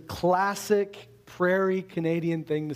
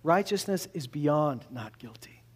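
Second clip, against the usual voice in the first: slow sincere; 3 semitones lower than usual. Real, not acted. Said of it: "come to believe".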